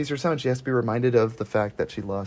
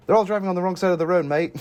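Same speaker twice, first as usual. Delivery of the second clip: put-on quick, jokey Australian accent; mock Australian accent; 6 semitones higher, faster than usual. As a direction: toss it off in a hammed-up Australian accent. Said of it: "it's an Australian movie".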